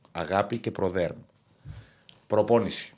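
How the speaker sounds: slow, measured and self-important; weighty pauses for comic grandeur; mock pomposity. Shown as a demonstration. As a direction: deliver each word with pompous weight. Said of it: "για να δώσω λίγο στόφο".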